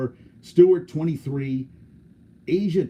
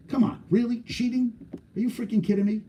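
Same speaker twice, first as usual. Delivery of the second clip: outraged disbelief; 10 semitones higher than usual. Real, not acted. Outraged at marathon cheaters.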